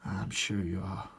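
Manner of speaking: put-on slow, slight British-accented line; accidental accent. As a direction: slip lightly into an action hero's British accent. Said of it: "I don't know why I did an accent there".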